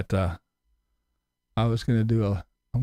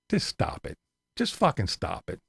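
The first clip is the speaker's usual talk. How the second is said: whispered telling-off; 3 semitones higher, 6 dB quieter than usual. Real, not acted. Telling critics off.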